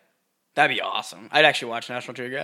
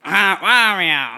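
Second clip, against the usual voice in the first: excited; 6 semitones higher, 6 dB louder, much slower than usual. Real, not acted. Reacting to the impression.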